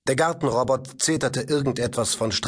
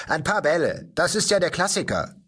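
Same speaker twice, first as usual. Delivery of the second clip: put-on know-it-all boy, pitched up; boy answering father in a precocious, pitched-up tone; 7 semitones higher than usual. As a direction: sound smugly grown-up. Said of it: "sagte der Junge altklug".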